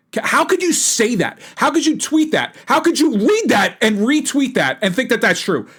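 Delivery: pitched high in outraged disbelief, how could you; genuinely can't believe anyone tweeted this; incredulous disbelief. Real, not acted.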